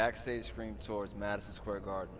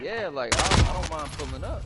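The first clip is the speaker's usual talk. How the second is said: louder and higher, casual imitation of a rapper; imitating a rapper; 6 semitones higher, 9 dB louder than usual. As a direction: lay it back like a star who won't play for free. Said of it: "He was like".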